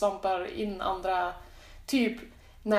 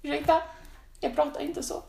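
higher-pitched, emphatic mock denial; indignant protest; 5 semitones higher than usual. Speaker replays denying the Östersund dialect, mock indignant. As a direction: act out an affronted objection. Denies having the dialect, acted quote.

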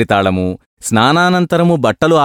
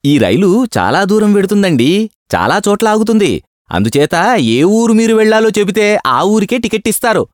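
calm advice; 10 semitones higher than usual. A narrator's reading. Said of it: "నిమ్మళంగా హితోపదేశం చేశాడు".

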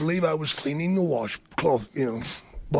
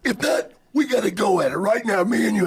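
challenging wrestler voice; Macho Man; 2 semitones higher than usual. Retold or imitated. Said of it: "That's a great Macho Man impression".

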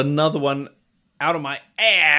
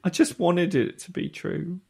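put-on softly spoken British accent; a soft, wistful British fishmonger; 2 semitones higher, 5 dB quieter than usual. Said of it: "I need you to drop the accent".

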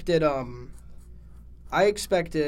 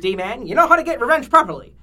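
villain voice; 5 semitones higher, 9 dB louder than usual. Acted. King Dice villain voice.

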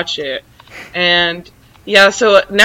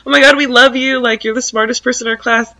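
higher-pitched gushing fans; put-on higher voice of admirers; gushing classmates; 5 semitones higher than usual. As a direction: imitate adoring classmates calling out. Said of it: "everyone's like".

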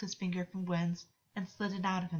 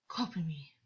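rasped; 2 semitones lower than usual. Acted. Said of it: "August rasped".

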